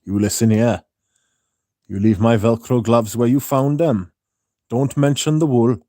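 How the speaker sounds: put-on Welsh lilt; mock Welsh warning; Welsh accent. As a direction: do a comic Welsh telling-off. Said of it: "I can do Welsh much easier".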